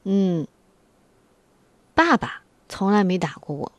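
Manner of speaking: playing the little boy telling on mum; imitating her son. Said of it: "然后他说". (模仿孩子的口吻，越说越高)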